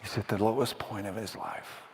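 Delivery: low, soft, grave aftermath; hushed narration. A narrator's reading. Preacher describing Job's despair, hushed. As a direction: drop down soberly after the outcry.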